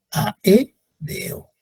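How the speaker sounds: "aéreo" said slowly, a-é-re-o, vowels kept apart; teacher showing the vowel split; slow syllables. Shown as a demonstration. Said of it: "todas esas son hiatos".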